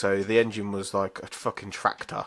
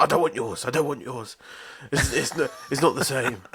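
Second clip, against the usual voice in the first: higher-pitched mock sulk; sulky; 4 semitones higher than usual. Girlfriend refusing his offered food after losing hers, sulky. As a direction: imitate a partner refusing in a huff. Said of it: "she was in such a bad mood".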